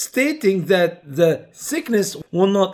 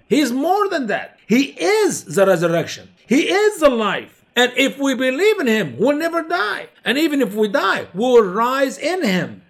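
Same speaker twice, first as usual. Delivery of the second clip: much higher, rising preacher's fervor; fervent preaching; 5 semitones higher than usual. Real, not acted. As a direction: lift the congregation with conviction. Preacher building fervent climax.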